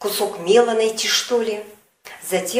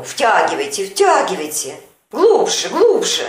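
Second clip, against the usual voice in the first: a touch louder, coaxing and businesslike; doctorly host voice; 4 dB louder than usual. Acted. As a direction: play the confident amateur doctor urging her on. Shelkov doses Sonechka, teacherly.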